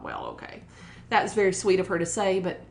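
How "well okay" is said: breathy, doubtful whisper to herself; whispered skeptical aside; whispered thought. Retold or imitated. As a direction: whisper it as an unconvinced inner thought. Retold private doubtful thought.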